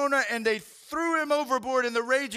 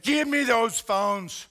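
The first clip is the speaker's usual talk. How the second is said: stern order; 4 dB louder, much slower than usual. Retold or imitated. Father confiscating phones.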